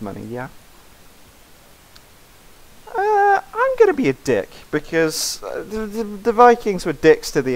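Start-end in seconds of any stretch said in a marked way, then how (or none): 2.9-4.5 mean character voice. Acted.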